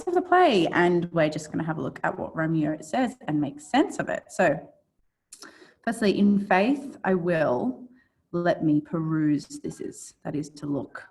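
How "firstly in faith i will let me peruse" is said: measured reading of Shakespeare; dramatic verse reading. Acted. Teacher reading Romeo's speech to students, dramatic verse reading. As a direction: read Romeo's lines out deliberately. Reads Romeo's lines aloud.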